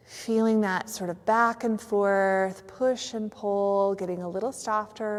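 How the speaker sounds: unhurried relaxation guide with long pauses; measured yoga nidra guidance; guided meditation. Real, not acted. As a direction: lead listeners gently into stillness, leaving space between phrases.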